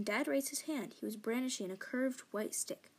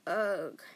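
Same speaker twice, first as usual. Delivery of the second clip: grunt; 3 semitones lower, 5 dB louder than usual. Acted. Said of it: "and she grunted".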